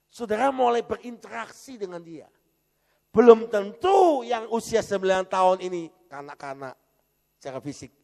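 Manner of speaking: loud, high preacher's cry to the congregation; fiery preaching. Acted. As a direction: thunder the question at the church. Preaching at full force.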